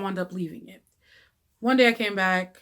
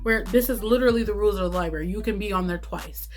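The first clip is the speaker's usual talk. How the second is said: indignant protest. Retold or imitated. Arguing with the librarian.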